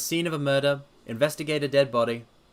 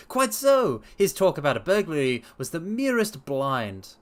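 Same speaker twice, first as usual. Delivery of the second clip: a higher, assured detective; lightly voiced confident sleuth; Holmes voice; 4 semitones higher than usual. Holmes promising to clear up the case, assured. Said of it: "Holmes replies".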